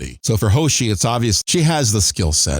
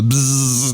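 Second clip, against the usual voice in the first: imitated buzz; 2 semitones higher than usual. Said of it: "It goes".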